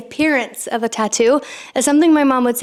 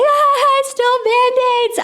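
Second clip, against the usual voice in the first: put-on much higher, sheepish little-girl voice; girl admitting the theft to her mom, high and sheepish; caught little kid; 13 semitones higher than usual. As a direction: squeak it out like a caught seven-year-old.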